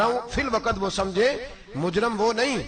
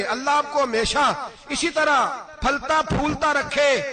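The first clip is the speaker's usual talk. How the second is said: rising grateful excitement; 7 semitones higher than usual. Retold or imitated. Widow's thanks mount with each stipend.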